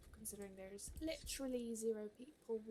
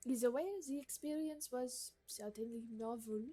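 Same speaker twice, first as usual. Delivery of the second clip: haughty gourmet lady. Acted. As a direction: read it like a picky aristocrat giving orders. Voicing the gourmet NPC Marguerite.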